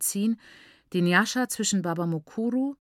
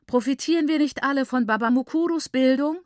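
higher, emphatic rhetorical question; admiring exclamation; 6 semitones higher, 4 dB louder than usual. A narrator's reading. Mother praises the uncle's education, raised admiring exclamation. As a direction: ask it aloud in rapt admiration.

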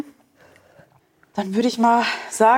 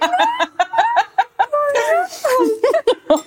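high delighted laugh. Real, not acted. Delighted reaction to praise.

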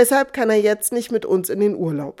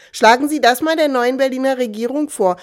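a mildly mocking jab, pitched up; sneering; 4 semitones higher than usual. A passenger mildly sneering at another about the government. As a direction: lightly scoff at the fellow passenger. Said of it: "höhnt ein anderer".

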